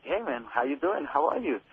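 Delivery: understated starstruck greeting, retold; retold shocked greeting. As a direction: greet your idol while caught off guard. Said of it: "I was shocked, you know, for a moment".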